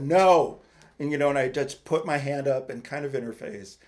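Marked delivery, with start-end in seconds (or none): 0.0-0.6 loud, higher, emphatic no; firm retold refusal. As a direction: cut them off with a loud refusal.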